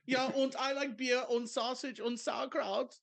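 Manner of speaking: high, cartoonish German beer-lover; hammed-up German accent on every word; mock German accent. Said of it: "like, the German accent".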